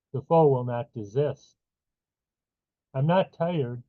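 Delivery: measured poetry reading, pausing between lines; poem recitation. Acted. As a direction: read it line by line, letting each phrase land. Reads own poem aloud.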